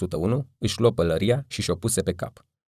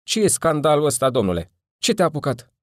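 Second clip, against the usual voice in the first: loud, higher, rough-voiced yell from a window; hoarse shout; 8 semitones higher, 4 dB louder than usual. A narrator's reading. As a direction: bellow it hoarsely at the noisy stranger. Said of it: "strigă răgușit".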